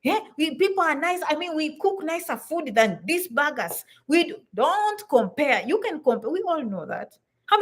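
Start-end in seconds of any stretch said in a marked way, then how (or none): 0.0-3.8 higher, boastful homesick bragging; lightly mocked complaining newcomer; comparing immigrant. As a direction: brag about back home. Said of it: "busy saying".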